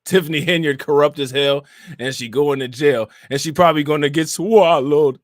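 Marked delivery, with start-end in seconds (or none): 3.3-5.2 loud, with "swallowed" stretched long; mimicked drawn-out "swallowed". Streamer joking about a corrupt official, "swallowed" drawn out mockingly. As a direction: lean hard on "swallowed", drawing out its first syllable. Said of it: "Why was he saying it like that?".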